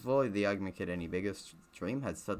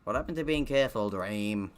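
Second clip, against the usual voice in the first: scolding; 4 dB louder than usual. Acted. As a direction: tell him off quickly. George scolding Dream.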